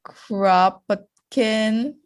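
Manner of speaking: put-on slow, drawn-out Russian accent. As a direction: say the name like a Russian would. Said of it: "You have to do a Russian accent".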